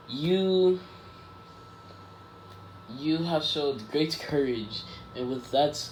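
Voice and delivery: slow, solemn mentor pronouncement; lightly voiced hero. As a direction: draw the words out like a proud hero, lightly acted. All Might solemnly praises young hero.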